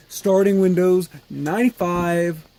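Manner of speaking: loud, thrilled reading of the screen; excited. Real, not acted. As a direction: read the boot screen like a win. Windows boots.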